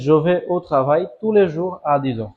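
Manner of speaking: slow, clear dictation of the full sentence; teacher reading a model sentence slowly. Shown as a demonstration. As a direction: read the sentence out slowly for the class. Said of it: "তাহলে".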